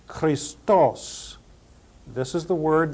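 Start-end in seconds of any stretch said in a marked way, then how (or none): 0.1-1.4 "Christos" said kris-TOSS, final syllable punched; stress on last syllable. Shown as a demonstration. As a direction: hit the TOS of "Christos", pausing between repeats. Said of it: "pronounce them all again".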